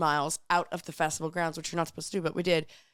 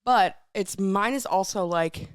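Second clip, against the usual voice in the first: hoarse voice from sandstorms; dry, dusty hoarse voice; dust voice; much slower than usual. Real, not acted. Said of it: "dust voice".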